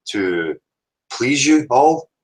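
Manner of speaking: plummy, over-proper farewell; posh voice. Acted. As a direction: put on a grand posh accent. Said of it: "I was gonna attempt to go out with the posh voice".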